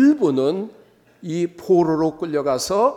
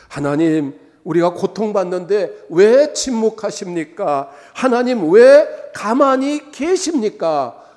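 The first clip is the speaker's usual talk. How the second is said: imitated anguished outcry; 3 semitones higher, 5 dB louder than usual. Exiles asking God why He stays silent, imitated anguished cry. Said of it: "그들은 울부짖기 시작했어요".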